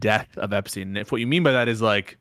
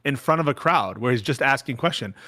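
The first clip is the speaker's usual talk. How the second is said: normal talking voice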